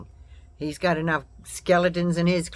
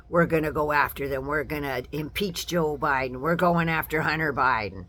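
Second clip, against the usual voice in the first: a hint of a gloating politician, lower; lightly mimicking their boasts; mock Republican; 3 semitones lower than usual. Mocking Republicans vowing to go after the Bidens. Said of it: "the first thing out of their mouth is".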